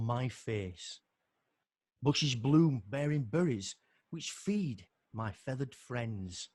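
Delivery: slow, gentle poem reading with long pauses; calm spoken poetry, savouring the pauses; poem recital. Acted. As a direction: let each image settle, unhurried. Reads a calm nature poem.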